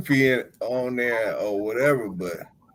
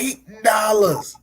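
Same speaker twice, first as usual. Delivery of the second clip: incredulous repeat; 8 semitones higher, 4 dB louder, much slower than usual. Real, not acted. Repeating price in disbelief.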